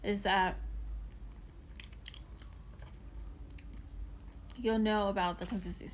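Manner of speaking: talking while chewing candy; mouth full. Real, not acted. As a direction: speak around a hard candy. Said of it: "Sorry, I'm chewing on this".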